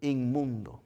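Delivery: loud, very slow command to the spirit; commanding rebuke. Acted. Jesus commanding the unclean spirit to leave, loud and slow. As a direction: order the demon out with authority. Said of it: "le decía".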